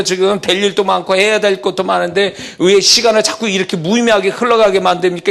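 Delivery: a hint of a worshipper protesting to God; complaining believer. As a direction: believer impatiently pleading with God, mildly voiced.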